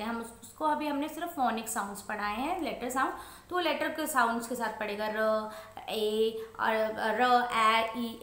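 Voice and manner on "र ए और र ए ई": "र, ए, ई" drawn out slowly, sound by sound; "र, ए, ई" unblended, as a beginner reads; child's phonic reading. Shown as a demonstration. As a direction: sound out "र, ए, ई" with ee as its own sound. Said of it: "इस तरह से पढ़ेगा".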